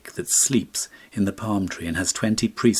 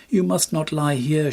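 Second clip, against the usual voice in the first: watchman shouting; 8 semitones higher than usual. A narrator's reading. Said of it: "shouted the watchman".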